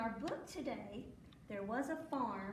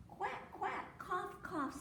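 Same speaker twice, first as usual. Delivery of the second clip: high-pitched quacks and spoken coughs; dog quacking; 8 semitones higher, slower than usual. A narrator's reading. Storyteller as the dog who caught the quack, high quacking. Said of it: "said the dog".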